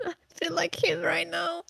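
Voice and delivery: laughing whisper. Real, not acted. Laughing at own old-man joke.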